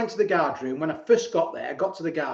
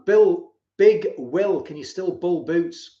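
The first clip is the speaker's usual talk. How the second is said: slow loud call out; 5 dB louder, much slower than usual. Real, not acted. Calling out to mate.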